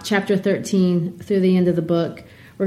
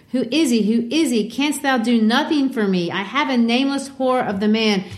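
higher, pleading minister; Dimmesdale begging; 5 semitones higher than usual. Retold or imitated. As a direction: beg her with a raised, anxious voice. Dimmesdale begs Hester again.

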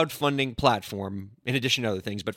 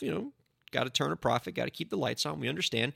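much softer, throwaway concession; grudging aside; 7 dB quieter, faster than usual. Acted. Lawyer conceding the platform's commission, softly and grudgingly.

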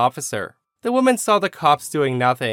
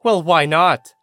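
higher, louder indignant challenge; acted angry scream; 4 semitones higher, 6 dB louder, slower than usual. Red-faced woman challenging the manager's refusal, acted angry scream. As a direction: throw it back in mock outrage. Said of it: "looks red at this point and screams".

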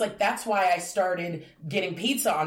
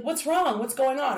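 worried mom; 7 semitones higher than usual. Retold or imitated. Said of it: "she's like".

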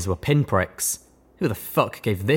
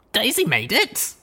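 glad exclamation; 13 semitones higher, slower than usual. A narrator's reading. Glad realisation.

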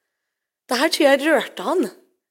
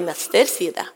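whispered, almost no voice; humble whisper; 4 semitones lower than usual. Acted. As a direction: breathe it out like a humble servant. Simon answers Jesus humbly.

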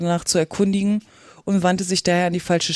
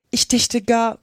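higher, indignant retort; 5 semitones higher, 4 dB louder, slower than usual. A narrator's reading. Alice objecting to a question about washing lessons, indignant. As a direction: take offence, pitch lifted. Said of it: "sagte Alice entrüstet".

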